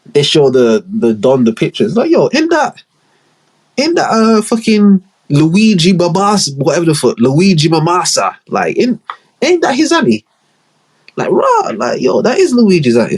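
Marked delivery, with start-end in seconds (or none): 1.9-13.2 much higher, squeaky mock voice; mock high-pitched goon. Gang member spotting the auntie, high squeaky mock voice.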